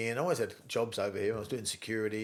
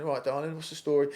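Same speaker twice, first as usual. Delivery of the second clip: cheeky Cockney charm, a touch louder; Cockney accent; 6 semitones higher, 7 dB louder than usual. Retold or imitated. To the hot Australian girls, in a cheeky Cockney accent. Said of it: "I had a real Cockney accent then".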